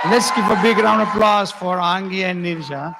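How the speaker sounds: rally the audience to clap; calling out. Real, not acted. Host calls the audience to applaud the dancers.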